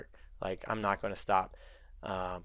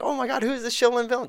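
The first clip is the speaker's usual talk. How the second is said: mock awe; 12 semitones higher, 3 dB louder, faster than usual. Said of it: "everyone's like".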